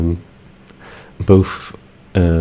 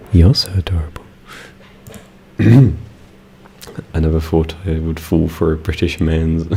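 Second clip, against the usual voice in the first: normal talking voice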